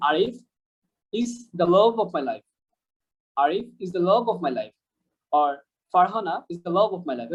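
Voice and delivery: very slow, "love" stressed; slow demo sentence. Shown as a demonstration. Teacher reads a slow model sentence to students. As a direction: spell it out slowly for learners. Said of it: "বলতে পারেন এভাবে".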